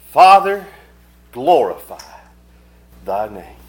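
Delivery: prayer in separated phrases, falling away; loud opening plea, easing phrase by phrase; fervent prayer. Retold or imitated. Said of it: "That's a prayer".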